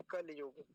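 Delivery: "कलयुग" slowly, with bare ल and no इ; wrong version demo. Shown as a demonstration. Teacher showing the version to avoid, dropped इ. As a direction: drop the vowel after ल in "कलयुग". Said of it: "ये वाला कलयुग नहीं बोलेंगे".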